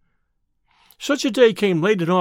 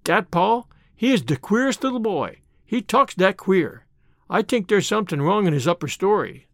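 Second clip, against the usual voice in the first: lightly imitated French-Canadian accent, dat and tink; boy mimicking a French-Canadian maid, a hint of accent; Mary Joe's French-Canadian accent. Boy repeats the hired girl's gossip, lightly mimicking her French-Canadian accent. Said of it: "I heard Mary Joe say".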